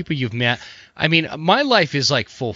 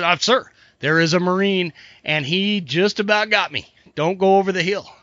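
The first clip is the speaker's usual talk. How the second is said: frantic soldier; 5 semitones higher than usual. Acted. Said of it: "he's just frantic".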